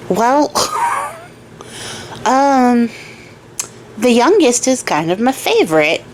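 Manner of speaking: hesitant farmer, long pauses between phrases; lightly acted reluctant deliberation, words stretched out; mulling it over. Farmer weighs handing youngest daughter to lizard, hesitant mulling. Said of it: "as he's sitting there, like, mulling it over".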